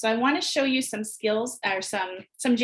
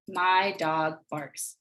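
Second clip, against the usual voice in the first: slow, separated words, a bit lower; slow spaced sentence; 5 semitones lower, much slower than usual. Shown as a demonstration. Teacher modeling for kindergartners, slow and separated. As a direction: read it out slowly for the class. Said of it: "have the students say the sentence".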